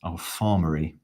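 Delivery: put-on lightly done Devon farmer accent; a stab at farmery Devon. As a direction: have a go at a rural Devon accent. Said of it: "Try that accent. So Devon".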